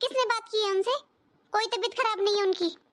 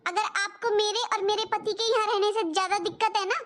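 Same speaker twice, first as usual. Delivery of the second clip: daughter flares up, voice rising on बोल and बोलेगी; hurt, heated reproach to her mother; angry retort; 2 semitones higher than usual. Acted. Daughter snapping back at mother over her husband, heated and rising. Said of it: "तू बहुत जल्दी भड़क जाती है बेटा".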